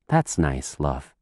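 low, soft, tender father; husband at the bedside, low and gentle. Acted. Father comforts his wife.

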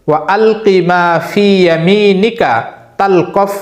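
slow, drawn-out recitation, words spaced apart; slow Quran recitation. Shown as a demonstration. Teacher reciting Surah Taha verse for memorizing, slow careful recitation. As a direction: chant it carefully, one phrase at a time. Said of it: "আমি বলছি".

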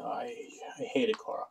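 hushed, breathy whisper of dislike; whispered aside. Real, not acted. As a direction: whisper it under your breath.

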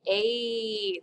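"A" held out as a long "ay"; accent aigu sound. Shown as a demonstration. Teacher shows class the accent aigu, "A" as long "ay". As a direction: hold "A" as a clear "ay". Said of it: "That makes that A sound".

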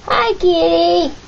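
high, slow sing-song to kitty; talking to a cat. Real, not acted. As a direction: coo at the cat sweetly. Grandma greeting the cat.

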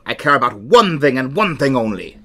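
lightly voiced pirate on "one thing"; a hint of a pirate captain saying "one thing and one thing only". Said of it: "I'm gonna do a pirate voice".

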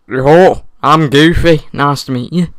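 Goofy impression. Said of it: "Welsh Goofy".

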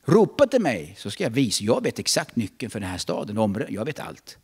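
a hint of a commanding God. Preacher voicing God answering the church, lightly commanding. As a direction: speak as God, firm and sure. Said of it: "säger Gud".

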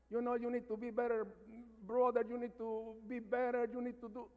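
half-playful motherly scolding. Retold or imitated. Mother scolding her oldest son, mildly imitated. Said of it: "my mama starts scolding".

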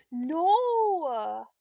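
loud pained cry of no; shout. Real, not acted. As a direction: yell it at the screen. Game setback shout.

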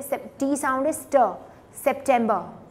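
सितंबर said the English way, "sep-TEM-ba"; crisp English ट in सितंबर, as "September"; English pronunciation. Shown as a demonstration. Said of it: "कैसे pronounce करोगे". (सितंबर का अंग्रेज़ी उच्चारण, ट की आवाज़ से)

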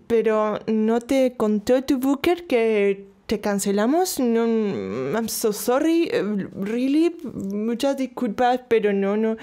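mock French accent, slow and pitying. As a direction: imitate the French director's accent, apologetic. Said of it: "con el acento ese francés". (acento francés imitado, lento y compasivo)

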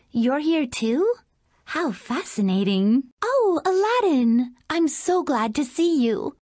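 gracious princess greeting the hero, sweet and even; lightly voiced storybook princess; Princess Jasmine voice. Jasmine greeting Aladdin, a gentle princess voice.

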